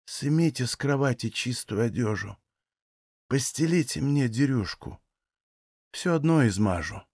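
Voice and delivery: soft, drained voice of a sick woman; barely enough strength to speak; faint plea from the sickbed; weak and faint. Acted. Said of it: "с трудом подняла голову".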